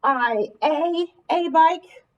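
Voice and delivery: slow, deliberate testing read; teacher slowly tests a wrong word; slow trial read. Shown as a demonstration. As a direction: sound out the wrong try slowly. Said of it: "That doesn't make sense".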